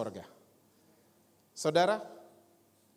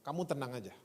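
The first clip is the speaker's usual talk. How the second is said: calm reassurance; 3 semitones lower than usual. Retold or imitated. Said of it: "dia ngomong gini".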